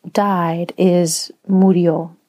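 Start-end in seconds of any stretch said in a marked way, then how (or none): 1.5-2.2 murió with the weight on the final ó; final-syllable stress. Shown as a demonstration. Speaker recalls grandmother's Spanish word, murió stressed on final ó. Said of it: "emphasis on the word is on the final syllable".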